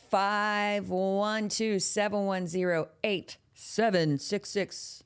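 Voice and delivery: each digit spaced out slowly for callers to note; slow dictation. Shown as a demonstration. Host slowly dictates the hotline number to viewers. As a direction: read the digits slowly so they can write them down. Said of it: "repeats the number slowly".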